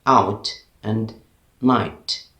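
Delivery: "out and night" with each final T clearly sounded; British-style T at the end of "out" and "night". Shown as a demonstration. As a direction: finish "out" and "night" on a clean T. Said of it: "very simply and clearly".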